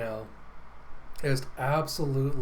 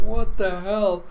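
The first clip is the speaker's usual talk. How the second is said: crowd yelling; 6 semitones higher, 9 dB louder, slower than usual. Acted. Crowd reacts in disbelief.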